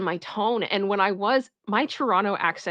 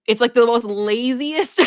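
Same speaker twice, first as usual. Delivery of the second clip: louder, slow build into laughter; amused; 2 semitones higher, 5 dB louder than usual. Real, not acted. Streamer mocking own city's accent, about to laugh. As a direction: stretch it out, about to crack up.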